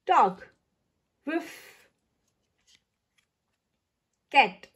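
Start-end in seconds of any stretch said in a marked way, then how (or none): 1.3-1.9 higher, softer mock bark; a small playful woof; dog woof. Reading to children, a soft little dog woof. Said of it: "Animal sounds".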